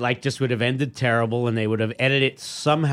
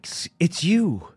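put-on higher, slow, half-hearted Brummie rock-singer accent; a self-admittedly bad Birmingham English accent; a rock singer's Birmingham accent; 8 semitones higher, slower than usual. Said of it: "I can't do the accent".

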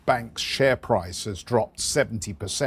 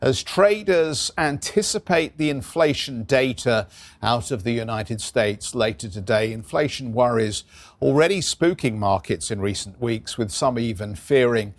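rapid market news; 2 semitones higher than usual. Acted. Anchor reading market news intro.

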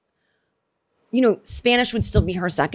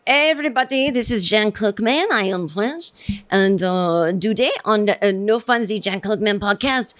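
put-on a deliberately terrible French accent, said confidently; lightly put-on French accent, host intro; mock French accent. Host mocking a fake podcast intro, in a bad French accent. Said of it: "doing a terrible accent".

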